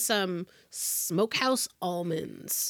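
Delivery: slow unvoiced whisper. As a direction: breathe it out quietly. Hushed joke tasting notes.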